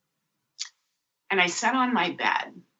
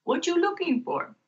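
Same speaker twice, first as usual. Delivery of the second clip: much higher eager voice; imitating Mark; 11 semitones higher than usual. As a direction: pipe up like the eager guide. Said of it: "who shows up".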